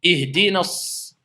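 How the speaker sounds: Ihdina s- with the s doubled and held; shidda shown. Shown as a demonstration. Teacher drawing out the doubled s of Ihdina s- for students. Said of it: "d'accord, il y a une shidda".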